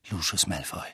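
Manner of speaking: tiefer und etwas leiser, verhalten wütend; unterdrückter Zorn, gedämpft; leise erzürnt. A narrator's reading. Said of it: "mit leiser, erzürnter Stimme". (Harry verdächtigt Malfoy, leise und erzürnt)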